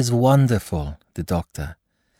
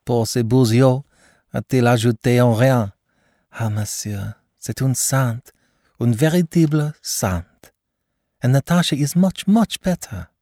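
gushing praise; 7 semitones higher than usual. Acted. Mother gushing about the doctor.

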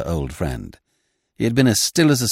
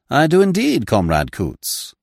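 mock courtesy; 5 semitones higher than usual. Smith greets gunman with mock courtesy.

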